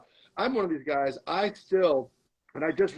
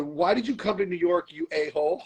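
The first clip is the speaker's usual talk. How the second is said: mock yelling at himself; 3 semitones higher than usual. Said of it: "and I, I yelled".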